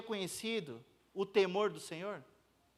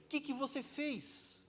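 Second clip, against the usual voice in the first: much softer, slow "que que você fez"; grave quiet question; 4 semitones higher, 10 dB quieter than usual. Acted. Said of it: "Pedro fala".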